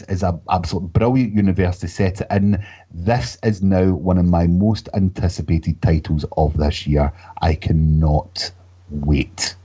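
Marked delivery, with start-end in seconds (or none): 2.9-9.6 low, slow, weighty declaration; grand, drawn-out hype in a lowered pitch; over-the-top earnest. Real, not acted. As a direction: draw out each phrase for dramatic anticipation. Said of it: "was that a bit over the top".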